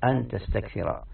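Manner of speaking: تستكثر as "tastakthira", ending in a; final a after an. Shown as a demonstration. Teacher showing the form after an, تستكثر said "tastakthira". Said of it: "يعني تستكثر أو تستكثر".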